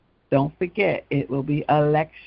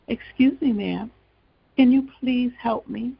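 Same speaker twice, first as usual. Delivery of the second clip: thin, higher, weak little plea; a frail stranger calling for help, a bit higher; feeble voice; 6 semitones higher than usual. A narrator's reading. Snake calling feebly to a woman on the path. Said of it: "heard a feeble voice saying".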